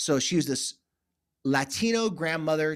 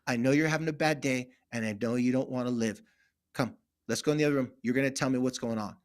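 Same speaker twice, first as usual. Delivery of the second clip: gentle reassurance; 4 semitones lower than usual. Retold or imitated. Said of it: "she'd give him a big hug".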